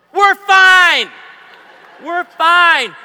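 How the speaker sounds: high, loud insisting we're fine; hammed-up old-timer shrug; garden-hose generation, mock. Voicing old folks.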